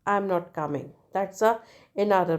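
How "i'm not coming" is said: "I'm not coming" as a plain statement. Shown as a demonstration. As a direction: state "I'm not coming" evenly, without a questioning lift. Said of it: "Then statement".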